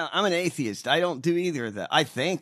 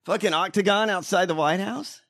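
higher-pitched, incredulous appeal; playfully berating, voice pitched up; mock exasperated scolding; 4 semitones higher than usual. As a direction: plead with an absent friend in mock disbelief. Mock scolding of absent Donald.

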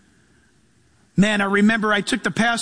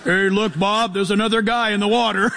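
laughing shark chatter. Pretend.

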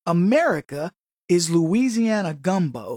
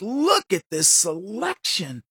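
amazed; slower than usual. Retold or imitated. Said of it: "he was just like".

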